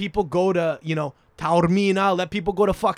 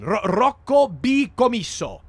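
slow, high, grandiose name announcement; mocking pomp, stretched and pitched up; mock-grand proclamation; 6 semitones higher, 4 dB louder, slower than usual. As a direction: draw the name out as if unveiling a monument. Mockingly proclaims name carved in stone.

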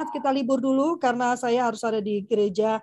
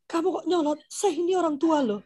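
higher, mock-offended scolding parent; mock indignant parent; 5 semitones higher than usual. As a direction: play an adult taking offence at a child. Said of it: "kita sebagai orang dewasa kadang-kadang suka". (orang tua pura-pura tersinggung)

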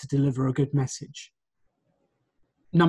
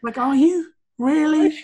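mock doubtful retort, much higher; playful raised-eyebrow doubt; skeptical; 11 semitones higher, 4 dB louder than usual. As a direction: tease with a high, disbelieving question. Mocking the unsure interviewee.

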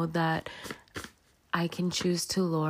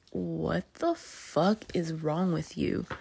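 slow, drawn-out jaw-dropped disbelief; stunned disbelief; slower than usual. Retold or imitated. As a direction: retell it slowly, appalled and open-mouthed. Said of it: "My jaw was, like, wide open".

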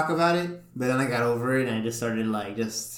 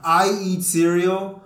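slow, higher, lightly mocking old-timer; mock old-timer poster; 6 semitones higher, 4 dB louder, much slower than usual. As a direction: imitate an old-school internet poster, drawn out. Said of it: "old Mexicans and shit like that".

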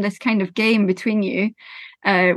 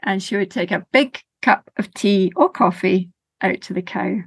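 slow, rhythmic storytelling voice; lilting children's storyteller; story narration; slower than usual. A narrator's reading. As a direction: tell it gently to a listening group. Tells a sensory story to audience.

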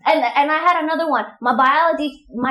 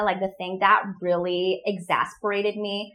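slow Californian accent; 4 semitones lower, slower than usual. Shown as a demonstration. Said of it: "people talk so slow".

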